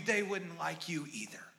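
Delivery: whispered fear. Real, not acted. Quiet ending of fearful thought.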